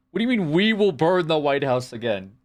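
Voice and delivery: high, scoffing repeat of the quote; incredulous mockery. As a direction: throw the line back in mock disbelief. Mock outrage repeating chat quote.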